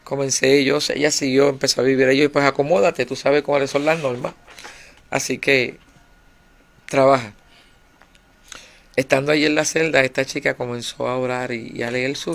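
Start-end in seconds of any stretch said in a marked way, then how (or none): 2.3-7.3 louder stern rules; firm orders. Retold or imitated. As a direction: lay down the law to the newcomer. Le da las normas a la nueva. (órdenes firmes y fuertes)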